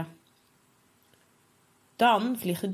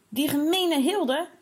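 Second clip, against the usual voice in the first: put-on angry boy; 4 semitones higher than usual. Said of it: "Hij balt zijn vuisten van woede".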